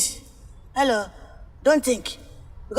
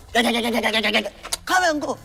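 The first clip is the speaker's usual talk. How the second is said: drawn-out dismissal; much slower than usual. Acted.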